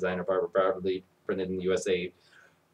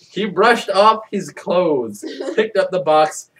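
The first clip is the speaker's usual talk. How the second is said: hammed-up reread; 8 semitones higher, 7 dB louder, slower than usual. Third take, hammed up slowly.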